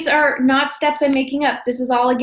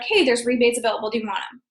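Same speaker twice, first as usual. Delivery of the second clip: fast, dull offer trailing much softer; flat, no energy; 4 dB quieter, faster than usual. Shown as a demonstration. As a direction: toss it off like you don't care. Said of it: "I'm not just like".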